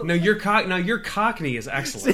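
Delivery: laughing tease. Real, not acted. Teasing co-host laughing.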